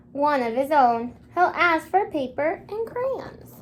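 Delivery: bright storybook read-aloud; gentle picture-book reading voice; reading to children. Acted. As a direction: read it like a story for little kids. Teacher reads picture book aloud.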